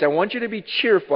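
normal talking voice

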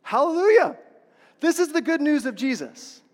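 high, loud hallelujah burst; joyful hallelujah. Real, not acted. Pastor erupting in praise to the congregation, high and loud. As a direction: let the praise ring out. Preacher's exclamation.

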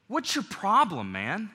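sharp, confrontational challenge; hostile tone. Shown as a demonstration. Preacher showing the wrong way to open a conflict, hostile. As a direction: spit it out like you want a fight. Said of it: "big difference in those two tone of voices".

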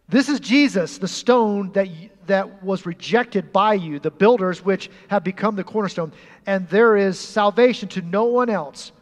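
bold proclamation. Acted. Preaching Peter's declaration.

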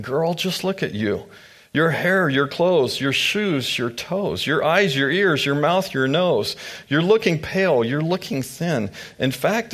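chatty mock-shocked ladies, pitch up; gossiping townswomen. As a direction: fuss over her looks like nosy neighbours. Townswomen greet Naomi teasingly.

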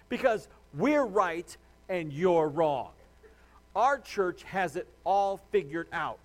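slow, mocking smug churchgoer. Pastor mocking churches that think they are right, smug mockery. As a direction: sneer it slowly, lampooning.

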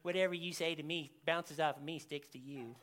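low, soft mock playground retort; childish comeback. Forty-year-old children arguing back at Jesus, childish and muted. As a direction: mutter it like a petty, overgrown child. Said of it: "Forty-year-old children".

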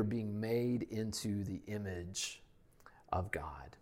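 hushed, breathy whisper for effect. Acted. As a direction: drop to an awed whisper. Preacher drops to whisper.

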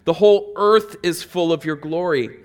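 high, loud call of praise; angelic proclamation. Retold or imitated. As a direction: call it across the throne room. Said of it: "They said".

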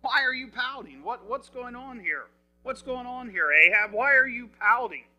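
wife's mildly exasperated questioning, acted; puzzled questioning. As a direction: lightly mimic a wife pressing her sulking husband. Jezebel questions her pouting husband.

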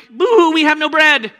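hammed-up boo-hoo, high and loud; fake-sob over the bread; mock crying. Disciples whining over bread, mock crying. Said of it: "being like".

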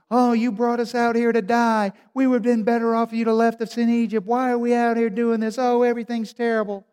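high, loud mock whining of the people; whiny complaining crowd. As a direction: whine it like a grumbling mob. People rebelling against Moses, whining.

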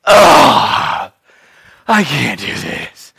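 whiny kid fake despair. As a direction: play a kid faking death over chores. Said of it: "they like fake death".

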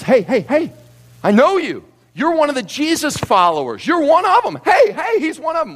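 high, pointed calling out of an accuser; accusing bystander. Acted. Accuser confronting Peter by fire.

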